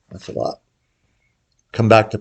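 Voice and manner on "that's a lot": whisper. Real, not acted. Reacting to fifteen units juice.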